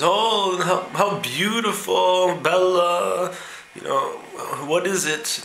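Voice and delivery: high, slow swooning tourist gush; mock an American gawking at a church. Tourist gushes over an old church, hammed-up high voice. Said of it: "the American says".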